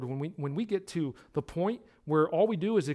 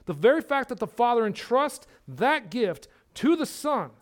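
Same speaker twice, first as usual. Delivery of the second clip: rising, louder preaching build; building sermon; 3 semitones higher, 4 dB louder than usual. Acted. Pastor pressing eternal life on his congregation, preaching with rising force. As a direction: drive the point home from the pulpit.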